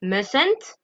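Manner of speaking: "mustn't" with silent T, mus-n't; pronouncing mustn't. Shown as a demonstration. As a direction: say "mustn't" without the T sound. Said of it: "on n'entend pas le T".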